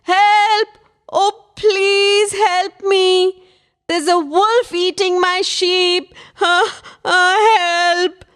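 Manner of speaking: high, drawn-out pleas for help; desperate shouting. A narrator's reading. Boy begs villagers as real wolf eats sheep, desperate shouting. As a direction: beg loudly, gasping between cries. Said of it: "shouted Tanya".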